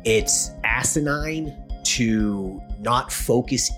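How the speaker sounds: slow emphatic. Real, not acted. Host hammers home point.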